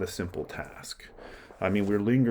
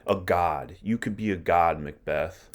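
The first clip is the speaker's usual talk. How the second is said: goading paraphrase. Retold or imitated. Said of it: "That's what Lady Macbeth is saying".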